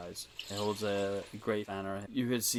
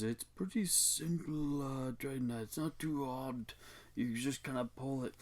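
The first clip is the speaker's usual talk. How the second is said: patient explaining; 4 semitones higher, 3 dB quieter than usual. Acted. Boone explains the door to Dreadnought.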